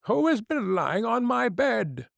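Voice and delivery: high, startled little dwarf; a dwarf squeaking in alarm at his bed. Acted. First dwarf calling to his brothers, high and alarmed.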